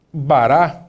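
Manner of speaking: bará, stress on the last syllable -rá; teacher sounding out a Hebrew word; Hebrew word model. Shown as a demonstration. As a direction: say bará slowly with a long final a. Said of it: "como na palavra".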